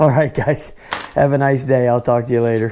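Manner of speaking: huffing and puffing, winded, low voice. Signing off to the viewers after running around, out of breath and huffing. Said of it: "I'm huffing and puffing".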